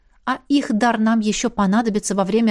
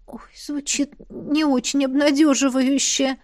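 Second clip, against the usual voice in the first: a touch of gloomy sighing; wistful sigh; 5 semitones higher than usual. Acted. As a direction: sigh it out, mildly dejected. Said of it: "тоскливо вздохнула я".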